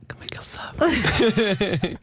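amazed whisper. Real, not acted. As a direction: breathe it out in wonder. Amazed at the mind reading.

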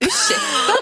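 snooty Stockholm-style "Ursäkta?"; clipped posh Stockholm twang; Stockholm accent. Real, not acted. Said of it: "Du typ försöker prata stockholmska".

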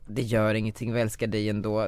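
a dry, sarcastic echo of a kind phrase; mocking echo. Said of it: "vadå".

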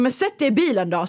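a touch of mock passive-aggressive; grudging, pointed offer; lightly imitating her own sulky reply to him. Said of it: "så här skitpassivt".

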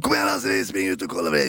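low, mock call to a mate; retold calling out. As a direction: imitate someone calling out, without real volume. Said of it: "så ropar han". (återgivet rop, lågt i rösten)

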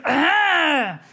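slow, formal phone voice with a throat-clearing "Ah"; an old Irish dad picking up the phone, slow and stiff; father answering the phone. Retold or imitated. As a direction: clear the throat, then read out the number slowly. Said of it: "he answered the phone like this".

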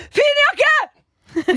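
high, loud call with a laugh; laughing shout of a compliment. Retold or imitated. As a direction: yell it out across the station, laughing. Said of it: "ropte jeg bare sånn".

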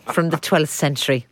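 lilting mock Irish quiz host; imitated Irish presenter reading a clue; Irish accent. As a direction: give the riddle an Irish lilt. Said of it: "apologies for the Irish accents".

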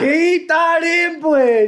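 laughing call. Real, not acted. Teasing friend calls out.

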